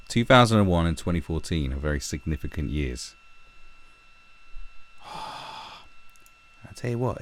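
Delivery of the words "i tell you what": 囁くように秘密めいて; hushed, secretive whisper. Real, not acted. Conspiratorial aside to viewers.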